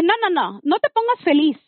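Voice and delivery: mock-urgent "no, no"; firm retold refusal. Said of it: "le dije".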